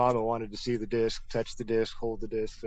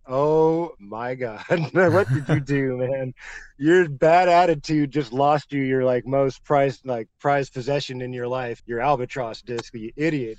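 scolding himself; slower than usual. Retold or imitated. Scolding himself after losing disc.

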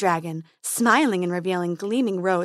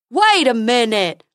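slow, louder dopey unicorn; silly unicorn gossip; 8 dB louder than usual. A narrator's reading. Fred the unicorn telling Dentina gossip, slow dopey voice. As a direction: gossip slowly and eagerly.

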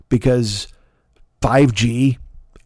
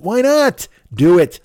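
excited egging on; 5 semitones higher, 4 dB louder, slower than usual. Pretend. Rich guy urging himself on.

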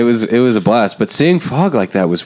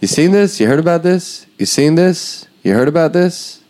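high-pitched nervous comic repeating himself; a hint of a flop-sweat standup; comedian bombing; 7 semitones higher than usual. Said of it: "That's my impression of a comedian bombing".

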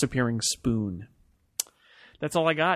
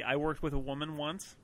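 mock quoting; 11 dB quieter than usual. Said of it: "There was the".

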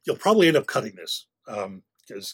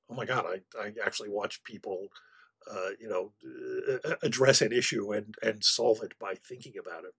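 hushed amazement; 3 semitones lower, 8 dB quieter than usual. Retold or imitated. Listener awed by the episode.

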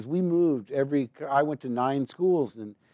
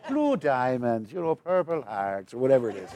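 cereal ad Irish. Retold or imitated. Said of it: "Lucky Charms commercial".

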